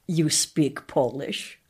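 put-on slow, careful Polish-accented English. Grateful parents tell the announcer, in a slow Polish accent. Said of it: "saying with the Polish accent".

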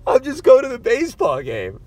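anxious squeaky retold line; nervous repeat. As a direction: replay your own nervous line. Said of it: "That's what I said to this guy".

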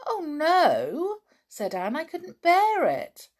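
high, loud pleading cry; a girl protesting she couldn't bear being left out; eager protest. A narrator's reading. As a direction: cry out at the very idea. Anne dreading being left out.

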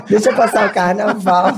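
laughing at her own reply; laughing repeat. Retold or imitated. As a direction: savour the punchline slowly.

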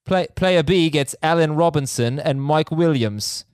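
half-hearted attempt at British English; terrible British accent. Host retries the email for co-hosts, poor British accent. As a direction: read it in a badly faked British accent. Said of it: "terrible British accent".

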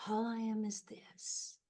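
hushed, slow retold whisper easing into soft voice; imitating a gentle whispering voice. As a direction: whisper it tenderly, as a voice in the ear. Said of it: "this beautiful voice whispered in my ear very gently".

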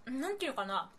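talking while crunching granola. Real, not acted. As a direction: speak between crunchy bites. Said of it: "ポリポリしながらなんですけど".

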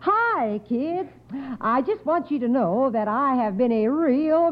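lightly voiced folksy aunt gossiping to the kids; a hint of a chatty small-town busybody; easygoing folksy gabbing, barely changed from the host's own voice; Aunt Fanny. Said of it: "Aunt Fanny ... Here she goes".

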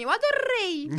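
put-on high child voice, "adorei" with a strong rolled R; child's rolled R. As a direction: show off the R in "adorei" like a proud little girl. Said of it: "ela fala assim". ("Eu adorei" com o R bem carregado, voz aguda de criança)

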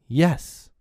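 put-on high, loud boyish reply; ringing answer. A narrator's reading. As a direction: let it ring out proudly. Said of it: "the answer that rang out".

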